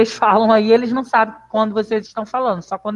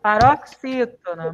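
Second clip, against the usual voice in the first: slow, careful syllable-by-syllable paroxítona; slow teaching read; slower than usual. Shown as a demonstration. Teacher models the answer for pupils, slowly. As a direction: spell out the stress for the class. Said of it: "Muito bem".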